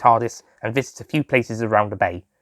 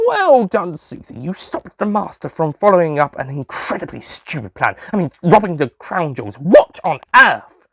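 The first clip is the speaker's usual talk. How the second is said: higher doctor voice; 5 semitones higher than usual. Acted. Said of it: "shouted the doctor".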